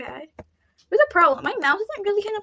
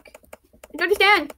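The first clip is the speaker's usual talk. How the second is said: "I don't understand" slow, every word stretched; drawn-out confusion; 2 semitones higher, slower than usual. Real, not acted.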